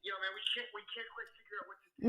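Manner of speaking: tinny speakerphone voice; phone speaker. Real, not acted. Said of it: "You're on speaker right now".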